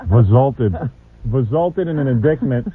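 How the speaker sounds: mock-careful "Resulted" drawn out; mocking word. Host teases the intern by repeating "Resulted". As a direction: lean on "Resulted" as if savoring it. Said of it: "I like the word resulted there".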